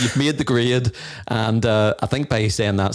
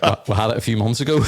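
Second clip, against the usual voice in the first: laughing quote; faster than usual. Retold or imitated. Recalls answer about forgotten birthday.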